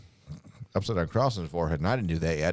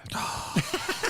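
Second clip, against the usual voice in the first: big gasp. Pretend. Guest winds up to quote a metal lyric, exaggerated gasp. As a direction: suck in air before a performed line. Wind-up to mock metal line.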